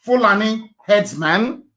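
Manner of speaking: slow, deliberate "Fulani herdsman"; slowly spoken. Shown as a demonstration. Slowing down so the viewers can type the search. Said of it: "I will speak very slowly".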